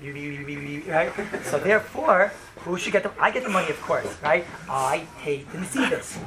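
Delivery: deliberate, condescending explanation, as if to someone dumb; talking slowly. Shown as a demonstration. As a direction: spell it out patronisingly, word by word. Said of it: "So I will talk slowly".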